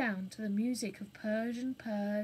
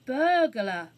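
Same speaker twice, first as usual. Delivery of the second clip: lightly voiced young girl; girl's call; 3 semitones higher, 11 dB louder than usual. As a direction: call out to him clearly. Jane calls to burglar.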